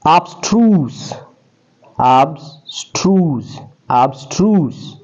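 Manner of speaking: abstruse said slowly and carefully, ab-STROOS; model pronunciation. Shown as a demonstration. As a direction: drill abstruse for students. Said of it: "ہمارا لفظ ہے جی".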